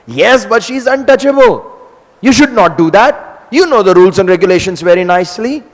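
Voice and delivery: high, loud reproach; husband scolding his wife, loud and high; stern scolding. Acted. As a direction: lay down the rules sharply. Jagannath scolds Lakshmi.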